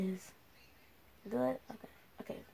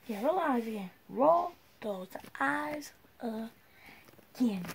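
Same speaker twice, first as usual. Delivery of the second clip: mom voice; 2 semitones higher, much slower than usual. Pretend. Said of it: "put my mom voice on".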